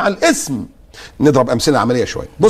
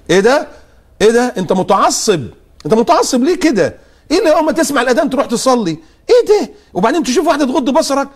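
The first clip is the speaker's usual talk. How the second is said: mock outrage; 8 semitones higher than usual. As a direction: ham up the scandalised critic. Mocking critics of the pious.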